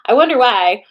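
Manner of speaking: loud, high mock-wondering aside; exaggerated sarcastic wondering; loud sarcasm. Real, not acted. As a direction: blurt it out with pointed irony. Sarcastic aside about their bad relationship.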